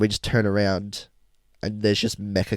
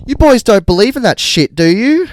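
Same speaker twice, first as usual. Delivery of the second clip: loud, much higher mock Carl; Carl's loud question; 10 semitones higher, 11 dB louder than usual. Carl asks the boys about the virus, loud and high. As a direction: belt it like the rambling stranger.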